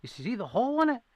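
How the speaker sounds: a friend showing the bullet hole, half disbelieving; retold rushed "you see the hole?"; incredulous friend. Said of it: "He goes".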